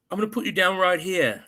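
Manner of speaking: imitated English accent; Andrew Garfield. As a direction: mimic a slipped English accent. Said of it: "Andrew Garfield's English accent comes out".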